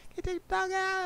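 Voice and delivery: high mock wife voice asking; imitating wife. Bridget calling from inside to take the dog out, high mock voice. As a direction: pitch way up like his partner calling. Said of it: "she called".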